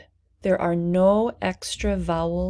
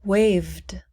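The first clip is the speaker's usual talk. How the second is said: whispered word; 3 dB louder than usual. Shown as a demonstration. Teacher whispering a word for repetition. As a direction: breathe out Waved. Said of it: "Please repeat".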